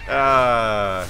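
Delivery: orc grunt. Pretend. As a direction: grunt like a peon. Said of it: "Like my orc voice?".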